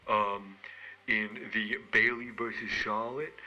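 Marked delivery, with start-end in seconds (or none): 2.7-3.4 Charlotte with a New York accent. Real, not acted. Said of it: "said Charlotte with a New York accent".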